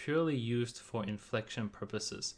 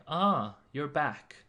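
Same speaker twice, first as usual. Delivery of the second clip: surprised ah you're back; 4 semitones higher, 5 dB louder, much slower than usual. Shown as a demonstration. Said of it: "kinda like".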